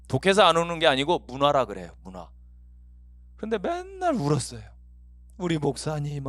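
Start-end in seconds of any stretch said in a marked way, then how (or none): 5.4-6.3 mock quavering weepy plea; imitated tearful prayer. Congregant praying for the departing pastor, imitated tearfulness. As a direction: act choked up mid-prayer. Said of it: "하면서 대표기도 하다 울고".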